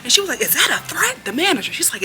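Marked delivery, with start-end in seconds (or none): 0.4-1.3 high-pitched mimicked challenge; imitated confrontational question, pitched up; retold challenge. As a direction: act out the manager squaring up. Acted manager challenging the guy.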